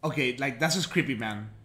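soft, low uneasy voice; creeped out. Real, not acted. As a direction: murmur it uneasily. Unnerved quiet.

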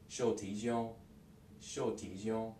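"Shou ti jiong" run together, the E dropped; quick casual "Shou ti jiong"; fast contracted form. Shown as a demonstration. Teacher shows the fast everyday form, vowels dropped. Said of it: "they say it like this".

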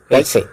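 "Kaise" with an open e vowel; German umlaut pronunciation. Shown as a demonstration. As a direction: demonstrate "Kaise" as German Käse. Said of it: "pronounced as". ("Kaise" German ഉച്ചാരണത്തിൽ)

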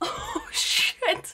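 jump-scare exclamation; startled shriek. Real, not acted. Spider reappears.

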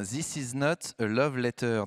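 English title in a light English accent. Real, not acted. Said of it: "Excusez mon accent anglais". (titre dit avec un léger accent anglais)

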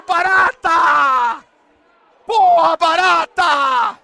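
high, loud, slow stretched shout; drawn-out yell. Real, not acted. Streamer screaming his goalkeeper's name, slow and loud. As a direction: drag the name out at full voice. Yelling at goalkeeper mid-match.

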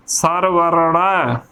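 ਸਰ ਵਰੜਾ slowly in two parts, r before ੜ; correct pronunciation. Shown as a demonstration. Teacher modelling the word for learners, slow correct ਸਰ ਵਰੜਾ. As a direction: draw out ਵਰੜਾ with a final long aa. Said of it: "ਸੋ ਏਦਾਂ ਉਚਾਰਨ ਕਰਨਾ ਹੈ".

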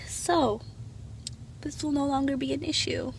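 slow delivery with long pauses; all slow. Real, not acted. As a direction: drag it out between phrases. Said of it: "why am I talking like that? All slow".

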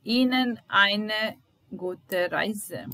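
slow, stressed Ihnen; teacher demo of polite form. Shown as a demonstration. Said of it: "euch oder Ihnen".

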